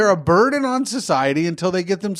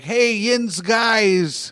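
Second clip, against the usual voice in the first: mock Pittsburgh accent; 4 semitones higher, much slower than usual. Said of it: "trying to do their Pittsburgh accent".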